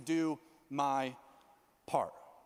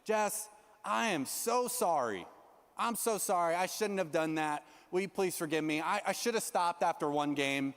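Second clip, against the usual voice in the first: sincere apology. Pretend. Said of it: "the best response I could come up with".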